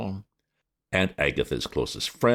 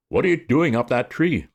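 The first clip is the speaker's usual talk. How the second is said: louder, higher, stern demand; policeman's demand; 10 semitones higher, 5 dB louder than usual. A narrator's reading. Policeman demanding why Bertie is up the tree, loud. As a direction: bark the question up the tree. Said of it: "policeman questions".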